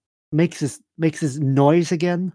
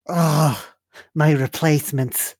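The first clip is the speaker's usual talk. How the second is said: groaned from the back of the throat; lightly voiced groaning figure; groaning old knight; 3 semitones higher, slower than usual. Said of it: "groans, uh, like, back of his throat".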